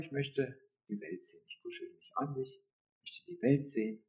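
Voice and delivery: near-whisper, voice almost gone; hushed intimate whisper. Retold or imitated. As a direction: breathe it to God like a secret. Her intimate reply to God.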